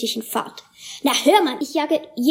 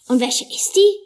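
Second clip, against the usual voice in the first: nervous; 7 semitones higher, 3 dB louder than usual. A narrator's reading. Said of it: "fragt Mina nervös".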